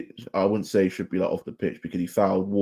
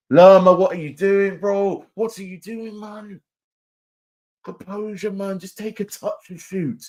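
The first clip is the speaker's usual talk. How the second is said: exasperated disbelief; 12 semitones higher, 5 dB louder, slower than usual. Real, not acted. Fan pleading with his midfielder after a botched finish, exasperated. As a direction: cry out at the wasted chance then deflate.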